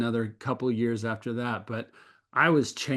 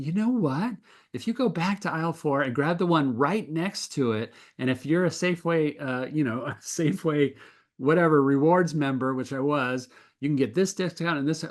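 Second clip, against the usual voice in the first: retold cashier excitement; 4 semitones higher than usual. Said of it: "got really excited and said".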